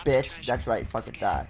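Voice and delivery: low, soft muttered curse; angry mutter. Real, not acted. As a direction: spit it under your breath.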